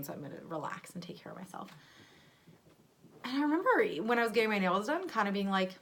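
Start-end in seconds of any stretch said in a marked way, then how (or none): 0.0-1.7 hushed, quick whisper to herself; whispered self-talk. Retold or imitated. Pregnant woman murmuring her self-care plan in a whisper. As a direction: whisper it like a private promise.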